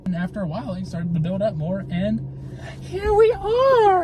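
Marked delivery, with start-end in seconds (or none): 2.8-4.0 drawn-out finale. Real, not acted.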